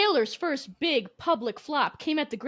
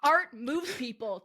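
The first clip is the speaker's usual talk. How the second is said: slow, drawn-out sneer; mock disdain; slower than usual. Host mimicking her cohost's disdainful line, slow and sneering. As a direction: draw it out with lofty scorn. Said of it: "The way that you said that with such disdain".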